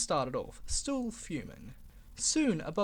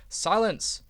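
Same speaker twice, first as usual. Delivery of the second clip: a sharp, louder snap; snapped command; 3 semitones higher, 6 dB louder than usual. Acted. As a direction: cut them off sharply. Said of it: "snapped the Fat Controller".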